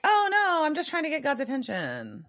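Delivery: a sing-song fake-innocent goddess excuse; imitating Amara. S1 voices Amara's sweet excuse.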